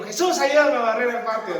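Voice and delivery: put-on a sly boy passing the chore to Jesus; cheeky child's plea. Dieguito pidiéndole a Jesús que barra, tono pícaro.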